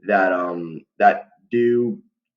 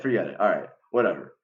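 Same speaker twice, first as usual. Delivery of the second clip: resigned mutter; faster than usual. Real, not acted. Repeats, dropping the matter.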